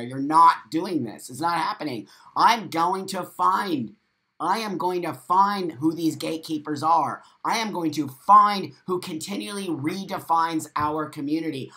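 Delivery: loud, emphatic indignation; defiant vow. Real, not acted. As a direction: declare it firmly, leaning on key words. Defiant vow against gatekeepers.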